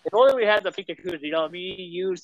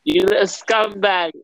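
slow, drawn-out British insult; put-on British accent, taking your time; slower than usual. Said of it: "the British guy yelling at me".

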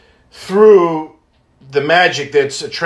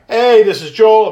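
cheery voicemail hello, a bit higher and louder; bright, friendly message voice; upbeat phone greeting; 5 semitones higher, 4 dB louder than usual. Retold or imitated. Leaving a voicemail for the Wish mom, cheerful. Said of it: "it's this guy".

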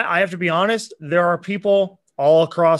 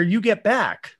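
voice crack; 4 semitones higher, slower than usual. Real, not acted. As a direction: voice cracking on a word. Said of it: "And I just had a voice crack".

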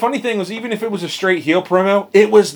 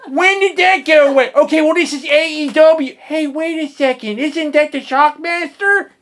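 high, loud Baltimore local radio guy; mock Baltimore DJ in a thick Dundalk accent; 11 semitones higher, 4 dB louder than usual. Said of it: "worried about the whole Dundalk accent".

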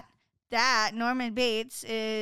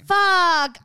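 frustrated curse; 8 semitones higher, 9 dB louder than usual. Real, not acted. Frustrated at missing answer.

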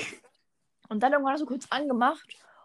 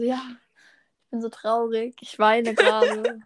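mock crying; 4 dB louder than usual. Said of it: "Melis schickt mir ein Bild, wo sie weint".

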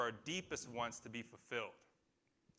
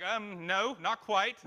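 mock elders' reply; 6 semitones higher, 7 dB louder, slower than usual. Elders' reply retold playfully.

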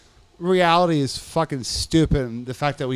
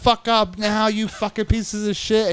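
higher-pitched imitation of a bullying guard; mock tough guard; 6 semitones higher than usual. Guard rousing inmates at shakedown, mock tough. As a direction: order them up, acting tough. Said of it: "how they try to act so tough".

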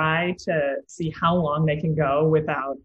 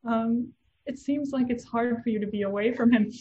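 put-on child voice; 7 semitones higher than usual. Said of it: "he's like".

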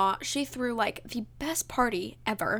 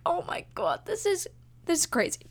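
high, hushed disbelief; retold overwhelmed amazement; 8 semitones higher than usual. Crying with sister at surprise, high retold disbelief. Retelling emotional reaction to siblings.

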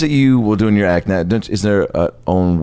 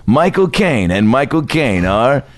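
movie trailer voice; slower than usual. Pretend. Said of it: "I'll set up the trailer".

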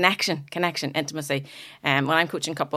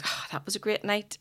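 higher-pitched mock-satisfied sigh of a line; mock contented partner; 5 semitones higher, 4 dB quieter than usual. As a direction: play the blissfully rested partner, higher. Partner's morning remark acted out.

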